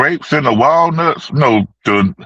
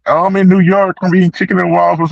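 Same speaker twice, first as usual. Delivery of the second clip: excited tourist voice; 6 semitones higher, faster than usual. Retold or imitated. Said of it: "he was like".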